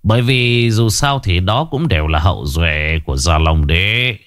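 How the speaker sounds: put-on slow, drawn-out old master's speech; lofty, unhurried dismissal; serene old sage. Old recluse tells the Vương father and sons thrones don't concern him, unhurried.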